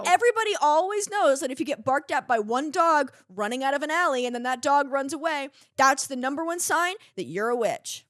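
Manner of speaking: lightly voiced little girl. Little girl explaining witch signs, lightly voiced child. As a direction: lecture like a know-it-all child. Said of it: "I'll be the little girl now".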